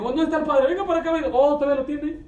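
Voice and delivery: high, loud mock hospital staff; doctors calling out. Doctors calling for the hiding father. (voz aguda imitando a quien llama al padre)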